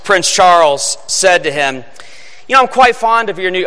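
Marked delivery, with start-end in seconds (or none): 2.5-3.7 put-on a quick, abandoned stab at a British accent; faint, rushed British accent on the quote; half-tried British accent. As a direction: start the line in a hint of a British accent, then drop it. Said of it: "I'm not gonna try to do a British accent".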